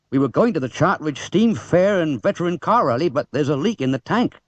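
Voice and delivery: a hint of a gruff country farmer; dismissive farmer, lightly played; lightly voiced farmer. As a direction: farmer brushing it off. Farmer Hearn voiced in story.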